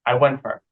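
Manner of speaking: "fur" said for "for", reduced; went-fur run together; a quick unstressed "fur"; weak "fur". Shown as a demonstration. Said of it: "become like a went fur".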